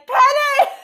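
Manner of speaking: high, loud panicked call; freaked-out shout. Acted. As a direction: yell the name out in a panic. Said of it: "I freak out and I'm like".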